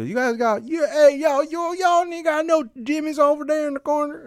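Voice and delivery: put-on squeaky caricature of an old-timer asking for jimmies; old white customer. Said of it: "They go".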